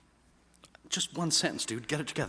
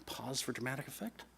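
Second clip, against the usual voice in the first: whispered aside; 10 dB quieter than usual. Real, not acted. Joking aside before starting.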